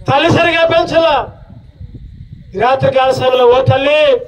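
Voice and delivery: urgent appeal to parents, each line pressed home; earnest preaching. Acted. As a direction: plead with every mother and father in the room. Preaches to the congregation.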